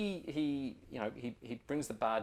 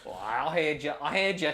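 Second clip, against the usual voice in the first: lightly voiced ranger, a bit louder; ranger brushing it off; 3 semitones higher, 6 dB louder than usual. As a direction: shrug off the complaint. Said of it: "he says".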